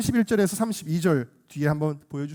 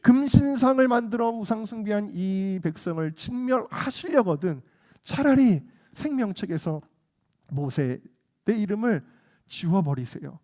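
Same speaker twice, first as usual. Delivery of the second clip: pleading with God, pitch lifted; acted heartfelt intercession; earnest prayer; 3 semitones higher than usual. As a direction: pray imploringly in Moses' place. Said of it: "이 마음을 가지고 간절하게 기도할".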